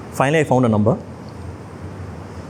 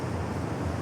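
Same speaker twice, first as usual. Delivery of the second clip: soft exhaled sigh; wordless sigh; 17 dB quieter than usual. Real, not acted. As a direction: let out a quiet breath. Pause after retelling bad news.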